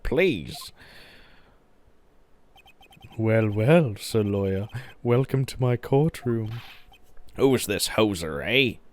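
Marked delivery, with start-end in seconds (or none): 3.2-8.8 lightly voiced Canadian villain, louder; Canadian accent. Villain welcoming the lawyer, mild Canadian accent. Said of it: "Is he Canadian?".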